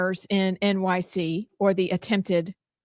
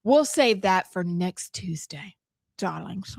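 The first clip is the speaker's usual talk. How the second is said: put-on British accent; 2 semitones lower, slower than usual. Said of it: "Or we could do British".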